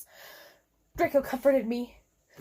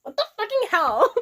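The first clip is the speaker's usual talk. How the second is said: loud, high demand; a loud angry demand; 9 semitones higher, 5 dB louder than usual. A narrator's reading. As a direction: angrily throw it at him. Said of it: "I asked angrily".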